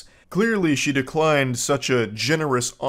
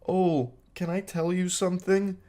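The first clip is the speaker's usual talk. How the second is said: put-on high, soft, coy anime girl voice; shy anime girl; 7 semitones higher, 4 dB quieter than usual. Mocking a texter as a shy anime girl, coy and high. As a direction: simper it like a bashful cartoon girl. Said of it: "acting like some kind of shy anime girl".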